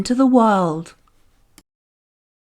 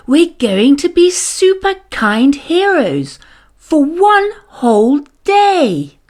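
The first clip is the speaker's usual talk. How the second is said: eager teacher; 5 semitones higher than usual. A narrator's reading. Teacher trying again.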